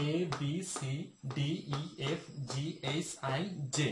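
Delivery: "A, B, C" recited the everyday subcontinental way; common mispronunciation. Shown as a demonstration. Teacher shows learners the common mistake, reciting "A, B, C" the subcontinental way. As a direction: read "A, B, C" with plain Bengali-style letter sounds. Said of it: "আমরা যেভাবে পড়ি আমি একটু সেভাবে".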